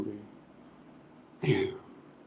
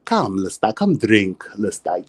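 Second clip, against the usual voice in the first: Akasha voice; 3 semitones lower than usual. Pretend. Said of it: "Better turn Akasha girl on".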